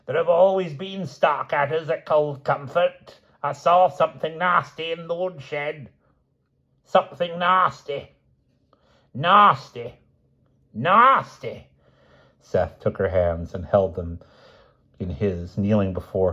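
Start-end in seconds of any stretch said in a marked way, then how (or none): 0.0-3.2 put-on much higher, slow wailing old woman; shrill hysterical cry. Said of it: "shrilly screaming". 3.4-11.7 put-on much higher, slow hysterical shriek of an old woman; shrill screaming. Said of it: "shrilly screaming".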